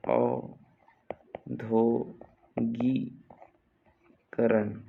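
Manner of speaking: very slow, gapped औद्योगिकरण; syllable by syllable. Shown as a demonstration. Teacher dictating to students, औद्योगिकरण slowly in pieces. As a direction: leave a pause after each syllable of औद्योगिकरण.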